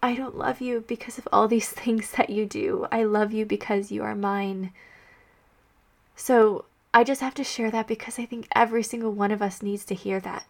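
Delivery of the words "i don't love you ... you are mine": whispered words of Jesus; gentle whisper. Retold or imitated. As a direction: hush it down, barely voiced, tender. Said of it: "he's like".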